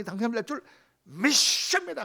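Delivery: drawn out high and loud, mocking the believer; mock lottery faith. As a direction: stretch it slowly, hammed-up conviction. (복권 당첨을 믿는 척 과장하며 길게)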